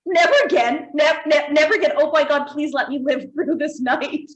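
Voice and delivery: hammed-up begging through a laugh; desperate pleading. Host reliving the ghost pepper challenge, desperate pleading. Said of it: "the day where you just like".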